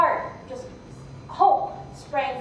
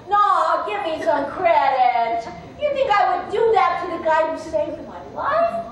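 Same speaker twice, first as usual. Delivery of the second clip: higher, wounded protest of innocence; indignant protest; 4 semitones higher than usual. Acted. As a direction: act offended at being doubted. Snake protests the man's suspicion.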